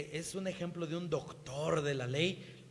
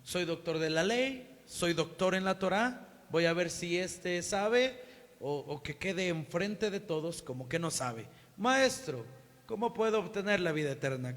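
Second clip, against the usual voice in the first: arrogant scholar. Acted. Acting the proud scholar.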